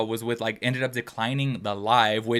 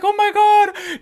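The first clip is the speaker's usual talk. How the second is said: touched; 6 dB louder, much slower than usual. Retold or imitated. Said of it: "I was like".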